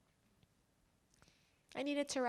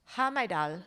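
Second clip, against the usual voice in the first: imitating her dad; 3 semitones lower, 5 dB louder, slower than usual. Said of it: "I want you to say it the way he says it".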